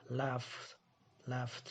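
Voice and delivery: laughed ending in F then a clear T. Shown as a demonstration. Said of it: "âm phờ, F". (laughed đọc đuôi ed thành T)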